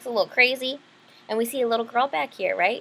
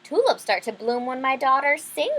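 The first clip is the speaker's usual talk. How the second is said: bragging miller; 3 semitones higher, 3 dB louder than usual. Acted. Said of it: "bragged the miller".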